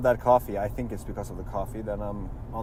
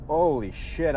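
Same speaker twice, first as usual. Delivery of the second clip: surprised; 5 semitones higher, 5 dB louder, slower than usual. Real, not acted. Sudden jolt on the road.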